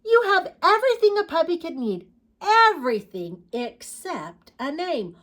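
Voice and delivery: put-on high, loud storybook child; singsong child talking to a puppy; little girl. Little girl trying to name her puppy, high animated voice.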